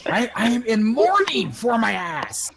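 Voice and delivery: melodramatic slow lament; mock mourning. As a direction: ham up the grief, slowly. Mock mourning over wounded rear.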